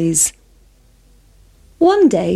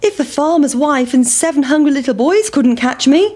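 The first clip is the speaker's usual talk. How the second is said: high, taunting pancake; high cocky pancake taunt; 5 semitones higher than usual. Acted. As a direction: boast as you roll away. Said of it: "cried the big pancake".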